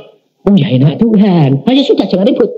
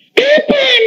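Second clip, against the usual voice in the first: eager question. Retold or imitated. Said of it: "saya bilang".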